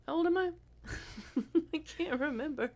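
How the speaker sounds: high, loud puzzled mock question; imitating Sheldon. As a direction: play him baffled by his own age. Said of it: "Sheldon be like".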